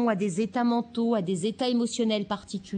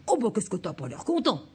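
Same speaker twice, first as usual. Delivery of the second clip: mirroring parent. Shown as a demonstration. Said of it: "vous le faites en mirroring".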